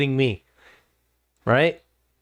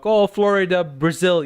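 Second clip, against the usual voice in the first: joking banter; 5 semitones higher than usual. Retold or imitated. Streamer imitating chat's gaming jokes, playful jab. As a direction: toss it off like friendly trash talk. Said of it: "you guys can have fun, you know, joke".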